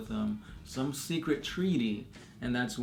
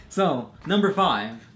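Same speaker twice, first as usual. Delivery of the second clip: clickbait video narrator; 3 semitones higher, 4 dB louder than usual. Pretend. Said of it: "Hashtag clickbait".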